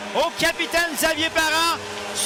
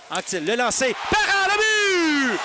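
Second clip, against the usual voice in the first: goal call. Real, not acted.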